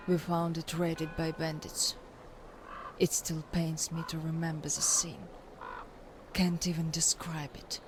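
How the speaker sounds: understated sorrow in a hushed telling; pained recollection. Acted. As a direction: recount a painful memory quietly, holding back. Recalls burying friends after massacre.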